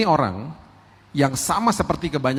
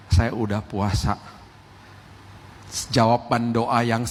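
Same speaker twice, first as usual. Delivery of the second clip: humble sincere believer; 2 semitones lower than usual. Retold or imitated. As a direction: sound content while still waiting on God. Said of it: "Beda sama orang yang ngomong begini". (jemaat yang bersaksi dengan tulus dan rendah hati)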